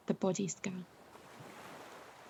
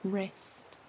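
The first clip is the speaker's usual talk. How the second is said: fading softer; 9 dB quieter than usual. Real, not acted. Body scan sinking deeper.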